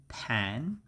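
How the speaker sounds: "pan" alone as a drawn-out first syllable; teacher isolating "pan", rising at the end; syllable breakdown. Shown as a demonstration. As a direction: sound out "pan" by itself for learners. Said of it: "the pronunciation is".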